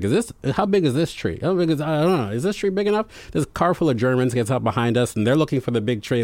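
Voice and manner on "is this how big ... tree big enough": high, anxious mother fussing over trees; fretting mother. Retold or imitated. Son imitating mother fretting on roadside, high and anxious. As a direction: mom voiced high and worried, checking each tree. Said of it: "She's like".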